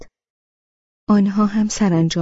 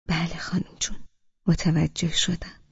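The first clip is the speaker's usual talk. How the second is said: very softly; 5 dB quieter than usual. Acted. Groom softly tells the grandmother he understood, whispering. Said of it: "خیلی آهسته گفت".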